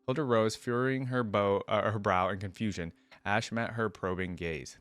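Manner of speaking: steady storybook reading voice; narrating a fantasy tale to viewers; story narration. A narrator's reading. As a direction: read the lore aloud like an audiobook. Reads story aloud between comments.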